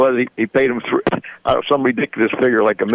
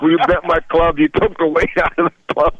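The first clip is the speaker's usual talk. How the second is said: raised-pitch outraged accusation, retold; mild mock yell, pitched up; mock scream; 6 semitones higher than usual. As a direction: imitate a golfer screaming an accusation, without full volume. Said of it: "He's screaming".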